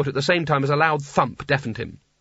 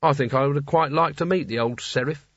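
speaking through clenched teeth; gritted teeth. Acted. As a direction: hold your jaw tight with irritation. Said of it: "she said, through gritted teeth".

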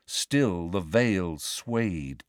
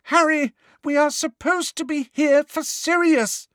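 very high, tense pleading; strained high voice, barely contained; high-pitched, strained; 4 dB louder than usual. A narrator's reading. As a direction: plead with strained urgency, voice pushed right up. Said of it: "she said in a high-pitched, strained voice".

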